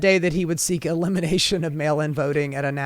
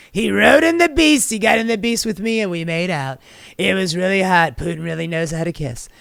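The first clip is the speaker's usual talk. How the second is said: Trump impression; 3 dB louder than usual. Mocking Trump about Putin ride.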